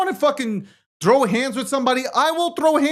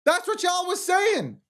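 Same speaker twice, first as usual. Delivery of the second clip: higher, slow, yelling the accusation at them; angry shout; 7 semitones higher, slower than usual. Real, not acted. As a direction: call them out hard. Accusing the group loudly.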